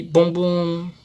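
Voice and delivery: "bombom" slowly, last BOM held long; stress on final BOM. Shown as a demonstration. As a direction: draw out the second syllable of "bombom". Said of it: "é a sílaba mais forte". ("bombom" devagar, alongando o último BOM)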